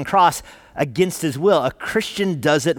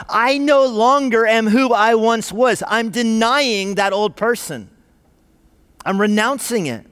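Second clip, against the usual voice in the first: higher, louder, slow public declaration; crying out; 7 semitones higher, 4 dB louder, slower than usual. Retold or imitated. Convert renouncing his old self before the world, loud slow proclamation. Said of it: "crying out to the world".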